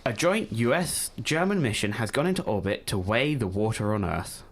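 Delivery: lightly done newsreader voice. Pretend. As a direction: read it like a newsreader, barely changed. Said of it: "Are you ready for the newsreader voice?".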